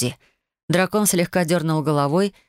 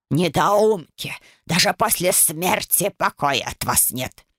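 slow, scolding crone voice; a cranky old ghost berating fools; angry old ghost; slower than usual. Acted. Ghost great-grandmother scolds family. (сварливая старуха бранится)

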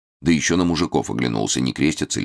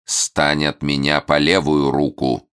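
commanding; slower than usual. Acted. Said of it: "приказал старец".

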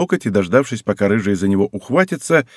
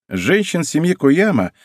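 slow, lofty and a bit higher; grandiloquent; 6 semitones higher, slower than usual. Acted. Girl boasting about the Koyama women, grandly. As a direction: declaim it like a proud family motto. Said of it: "произнесла она высокопарно".

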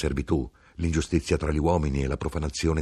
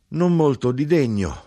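higher, louder mocking call; loud, high mocking hawker; mocking knife-grinder; 9 semitones higher, 6 dB louder than usual. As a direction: throw the words out with scorn. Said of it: "la voce scaturiva un po' rauca, di intonazione beffarda".

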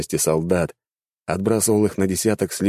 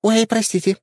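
put-on high, squeaky girlish chatter; squeaky dryad. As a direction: play a silly little dryad, pitched way up. Dryad apologizes.

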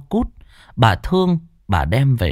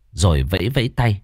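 ordinary delivery, nothing marked

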